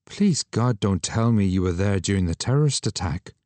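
shocked. Acted. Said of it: "He sounded shocked".

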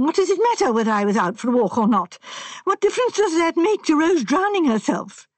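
put-on distressed young man. A narrator's reading. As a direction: voice him anxious and upset. Sanford voiced in story.

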